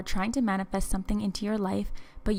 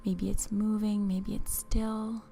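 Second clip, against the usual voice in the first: guided visualization. Acted. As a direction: ease the listener along, unhurried and hushed.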